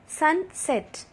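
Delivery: SUN, SET as two separate beats; syllable by syllable. Shown as a demonstration. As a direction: split Sunset in two for clapping. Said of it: "Clap with me as I say these words".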